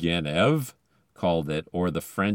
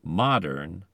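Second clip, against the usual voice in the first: Modern, stressed MOD-ern; stress on first syllable. Shown as a demonstration. Podcaster showing accent shift, Modern stressed on first syllable. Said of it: "ending pulls the accent ahead of it".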